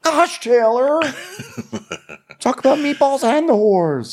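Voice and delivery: high voice breaking into laughs; laughing while mocking a prim castmate; mock prim scolding. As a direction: gasp it out giggling.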